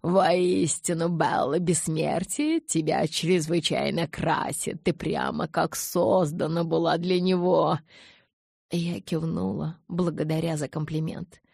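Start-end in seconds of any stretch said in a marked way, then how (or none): 0.0-7.8 grand flattering elder. Acted. Aro flatters Bella grandly.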